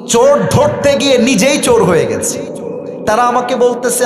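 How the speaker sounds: ordinary delivery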